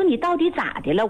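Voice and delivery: retold impatience. Assistant to a crying patient who won't talk, getting impatient. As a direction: press for an answer, mildly exasperated in the retelling. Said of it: "给我急了".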